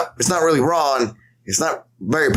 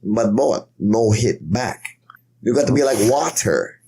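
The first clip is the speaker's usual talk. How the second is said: Bruce Lee. Retold or imitated. Podcaster quoting a kung fu star's advice, fake Chinese accent. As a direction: fake Chinese accent in short, deliberate phrases. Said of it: "doing the fake accent".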